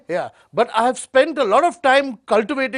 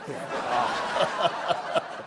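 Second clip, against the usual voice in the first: forced breathy laugh; false laughter; 10 semitones lower, 9 dB quieter than usual. Acted. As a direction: fake a laugh, unvoiced. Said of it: "false laughter from my side".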